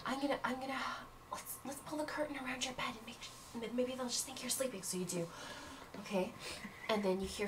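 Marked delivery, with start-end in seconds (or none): 0.0-4.8 hushed. Acted. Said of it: "she says".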